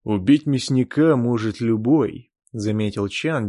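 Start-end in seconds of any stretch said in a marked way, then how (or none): 0.0-2.3 mock yawning. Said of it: "демонстративно зевнув".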